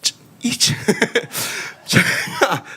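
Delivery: giggling whisper, half to himself; real embarrassed whispered giggle. Real, not acted. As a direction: whisper it through a sheepish laugh. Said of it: "너무 창피한 거죠".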